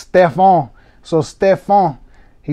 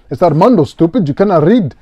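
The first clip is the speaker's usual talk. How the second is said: louder, higher self-insult in jest; mock self-scolding; 4 semitones higher, 6 dB louder, faster than usual. Breaker playfully scolding himself for misreading. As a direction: tease yourself for misreading. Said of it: "I'm dyslexic as hell".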